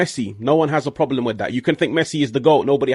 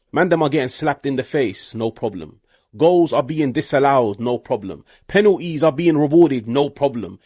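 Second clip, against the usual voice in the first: sarcastic refrain. Real, not acted. Sarcastic refrain mocking FIFA.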